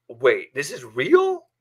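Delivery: retold shock, slow and incredulous; stunned disbelief. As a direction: slowly question it in disbelief. Reacting to news of a death.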